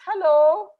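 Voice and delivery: put-on high, loud girl's greeting; bright girl's hello. New girl greets the boy in a high, loud girl's voice. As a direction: greet him like a cheerful little girl.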